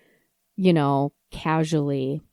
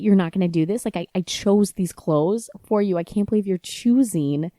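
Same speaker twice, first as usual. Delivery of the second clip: retold anger; 4 dB louder than usual. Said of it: "maybe you can hear it in my voice, how angry".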